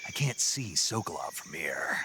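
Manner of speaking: hushed radio whisper, barely voiced. Agent reporting to Major while sneaking, whispering. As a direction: keep it under your breath so sentries don't hear.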